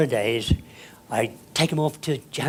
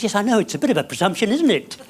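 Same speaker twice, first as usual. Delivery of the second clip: laughing reply; 7 semitones higher, 4 dB louder, faster than usual. Retold or imitated. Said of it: "And I said".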